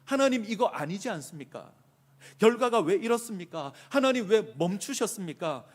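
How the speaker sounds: high, loud challenging questions; acted indignant remonstrance; arguing with God. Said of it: "따지고 있습니다".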